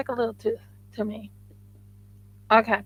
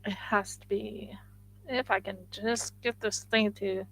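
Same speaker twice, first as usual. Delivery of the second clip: whisper; 9 dB quieter than usual. Real, not acted. Concentrating on the clay.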